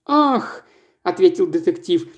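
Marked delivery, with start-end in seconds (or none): 0.1-0.7 high startled "Ах"; detective caught off guard; surprised exclamation. Acted. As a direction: gasp it out in surprise.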